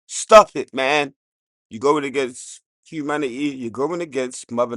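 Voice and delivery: loud sudden telling-off; scolding shout. Real, not acted. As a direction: bark it out loud. Scolding humanity.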